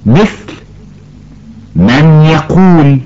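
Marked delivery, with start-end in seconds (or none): 1.8-3.0 من يقول said slowly with the n merged into y and a nasal hum; إدغام بغنة. Shown as a demonstration. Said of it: "الصواب أن ننطقها". (إدغام بغنة في الياء)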